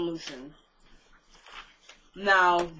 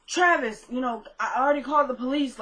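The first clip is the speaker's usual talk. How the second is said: higher-pitched, lightly acted alarm; retold scared; 3 semitones higher than usual. Frightened woman at Kelly's door says she called police, scared. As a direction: act out a scared call through the door. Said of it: "Like, she's scared".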